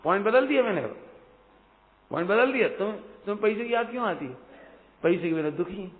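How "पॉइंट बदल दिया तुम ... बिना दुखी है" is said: ordinary talk, nothing marked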